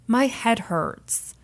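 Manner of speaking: slow, drawn-out complaint; ailing contestant. Retold or imitated. Contestant telling the DJs she hurts, slow imitated complaint. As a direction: gently imitate a woman feeling sick, very slowly. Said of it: "and she goes".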